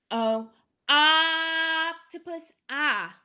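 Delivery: slow "Oh, octopus" with a dropped jaw; teacher models the short o; stretched short o. Shown as a demonstration. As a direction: slowly draw out the o. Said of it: "my mouth makes that same shape".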